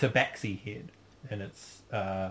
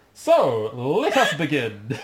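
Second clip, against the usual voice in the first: grinding stone statue; 6 dB louder, slower than usual. Acted. Statue voice opens the game.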